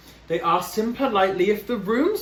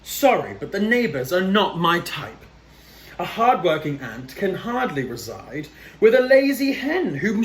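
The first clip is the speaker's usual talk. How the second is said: nasty gripe; 3 semitones higher than usual. Acted. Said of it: "The ant replied in a nasty gripe".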